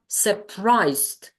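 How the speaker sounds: SURPRISED in two syllables, closing on a crisp "st"; teacher's careful demo of SURPRISED; st ending. Shown as a demonstration. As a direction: end SURPRISED on "st", no extra vowel. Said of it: "Here it's st".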